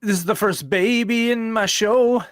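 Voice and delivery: high autotune-style singer voice; a singer's voice. Retold or imitated. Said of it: "does the singer voice".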